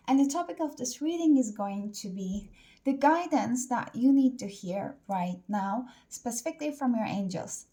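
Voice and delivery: breathless, a little winded; out of breath. Real, not acted. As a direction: talk while short of breath. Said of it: "I'm out of breath".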